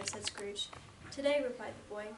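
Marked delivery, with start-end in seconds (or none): 1.1-1.4 loud startled echo of the word; boy blurting in disbelief; surprised boy. A narrator's reading.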